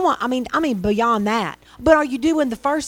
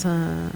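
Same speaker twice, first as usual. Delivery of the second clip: mock forced grunt; 7 semitones lower, 5 dB quieter than usual. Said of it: "One of those kind of smiles".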